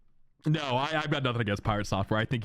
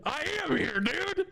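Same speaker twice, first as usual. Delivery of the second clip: exasperated retort. Retold or imitated. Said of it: "And I'm like".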